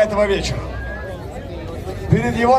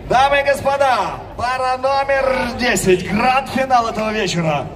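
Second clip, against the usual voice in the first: boxing announcer. Acted. MMA fight announcer.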